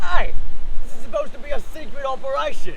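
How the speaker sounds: loud, sharp rebuke to the comrade, fast; angry outburst. Acted. Comrade blurts out secret plans.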